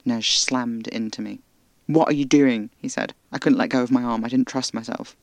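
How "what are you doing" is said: sharp alarmed shout. Acted. Nej startled, snapping at narrator.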